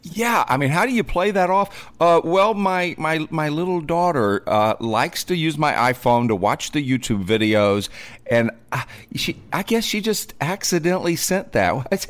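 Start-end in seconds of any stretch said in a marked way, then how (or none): 2.0-12.1 higher, hesitant fumbling-suspect voice; mock lame excuse. Host mocks the husband's excuse to police, hammed-up stammer. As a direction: play the flustered liar scraping for an excuse.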